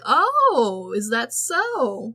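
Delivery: feigned, drawn-out fascination; mock interest. Adult humoring a child's family gossip, mock interest. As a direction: play up polite interest in juicy gossip.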